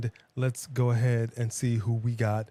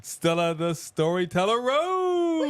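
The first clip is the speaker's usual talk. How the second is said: higher ring announcer call; ringmaster; 4 semitones higher than usual. Acted. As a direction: hype the name like a ring announcer. Ring announcer introduces second dog.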